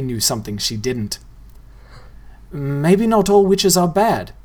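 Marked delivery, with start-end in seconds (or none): 2.5-4.3 put-on higher, slow boy's voice, tentative; gentle suggestion. A narrator's reading. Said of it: "Nobody suggested".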